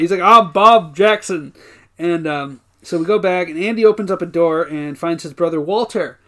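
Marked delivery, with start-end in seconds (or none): 0.2-1.5 slow, loud mock Black accent; imitating a put-on Black accent, loudly; stereotyped Black accent, imitated. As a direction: draw out a caricatured Black accent. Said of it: "like, a black accent".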